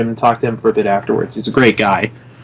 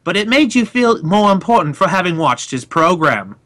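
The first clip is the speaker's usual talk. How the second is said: arrogant British presenter voice; British announcer accent; 5 semitones higher than usual. Shown as a demonstration. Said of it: "He talked like this".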